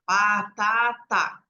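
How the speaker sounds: very slow, dragged-out syllables; child slowly sounding out batata; slow drawn-out reading. Shown as a demonstration. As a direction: stretch the word out like a hesitant reader. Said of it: "a criança lê em voz alta".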